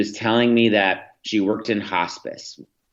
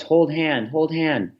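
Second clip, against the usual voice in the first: lightly voiced one-year-old, higher; a hint of a little girl asking, higher; toddler voice; 8 semitones higher, slower than usual. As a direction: daughter pleading to hold hand, toddler voice. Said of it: "in her one-year-old voice".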